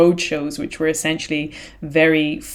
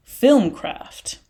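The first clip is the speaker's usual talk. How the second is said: whispered; 5 semitones higher than usual. Real, not acted. Dramatic emphasis ending a point.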